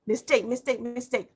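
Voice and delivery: "mistake" repeated with stress on the first syllable, MIS-take; habitual wrong stress. Shown as a demonstration. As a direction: show the slip: "mistake" weighted on "mis". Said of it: "like this".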